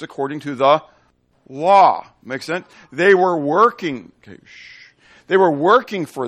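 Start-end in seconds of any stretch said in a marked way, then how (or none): 4.2-4.9 whispered hush. Real, not acted. Hushing the class mid-sermon.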